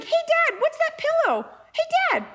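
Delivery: very high squeaky pet voice; innocent dog voice. Acted. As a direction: pipe up like a clueless little dog. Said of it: "we do this voice".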